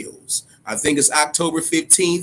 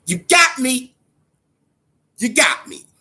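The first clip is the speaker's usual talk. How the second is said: mock defeat; 9 semitones higher than usual. Admitting the DLC reveal won him over, high mock surrender. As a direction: throw up your hands, "you got me". Conceding to the game makers.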